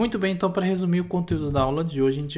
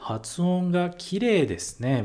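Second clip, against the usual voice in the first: "Hatsuon ga kirei desu ne" spoken slowly, each syllable clear; slow it down so students can follow "Hatsuon ga kirei desu ne"; teacher repeats "Hatsuon ga kirei desu ne" slowly for the class; slow model phrase; 3 semitones higher, slower than usual. Shown as a demonstration. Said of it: "Eles vão falar pra você".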